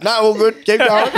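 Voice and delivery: put-on high laughing old-lady voice; startled old ladies. Old ladies declining the offer, high and laughing. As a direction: back away politely, laughing. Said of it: "And they're like".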